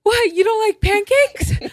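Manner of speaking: high, loud comic character voice; imitating an eager, puzzled host; Dale. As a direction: act out baffled, hammed-up surprise. Acts out Dale after the scream.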